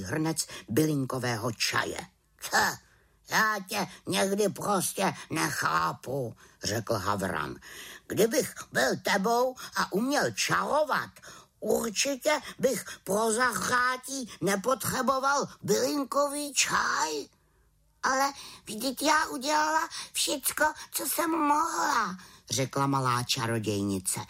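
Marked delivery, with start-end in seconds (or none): 2.4-6.4 put-on a huffy old bird who prefers the warm room; grumpy raven. Raven scolds witch. 8.1-17.3 put-on a huffy old bird who prefers the warm room; grumpy raven. Raven lectures witch. 18.0-22.2 high, close to tears; a wounded little witch near crying; high teary protest; tearful whine. Acted. Witch complains, hurt.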